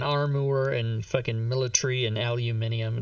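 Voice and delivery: armor as "arm-oo-er", aluminium as "al-yoo-min-ee-um"; mock British armor and aluminium; extra vowels. Shown as a demonstration. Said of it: "add extra vowels into shit".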